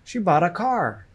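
"bought" and "car" stressed; teacher's model stressing "bought" and "car"; stress on content words. Shown as a demonstration. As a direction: punch "bought" and "car", keeping "She" and "a" light. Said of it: "bought and car".

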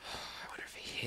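half-whispered wondering; whispering. Real, not acted. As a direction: start it in a whisper. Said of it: "I keep whispering".

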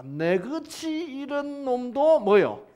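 Jonah's awed realization; amazed realization. Acted. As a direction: let the wonder build. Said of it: "요나가 깨닫는 거예요".

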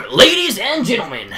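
lightly voiced booming troupe boss; Baku voice. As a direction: announce to the crowd like a showman. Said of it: "my Baku voice".

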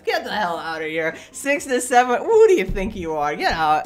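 incredulous outburst. Real, not acted. Ridiculing the voicemail boast, loud disbelief. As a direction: throw it back at him.

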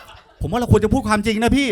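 stubborn deadpan. Retold or imitated. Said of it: "มึงมาย้ำอยู่นั่นน่ะ".

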